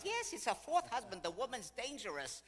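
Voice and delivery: high, loud, gleeful warning; emphatic gossip. Retold or imitated. Golden girl warning guide about much-married widow, emphatic. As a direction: imitate a scandal-loving friend.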